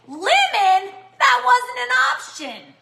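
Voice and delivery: high surprised squeak. Real, not acted. Reacting to a comment.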